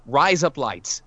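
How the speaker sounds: "rise up lights" run together at normal pace like Aussie "razor blades"; Australian demo. Shown as a demonstration. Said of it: "you're already saying razor blades in Australian".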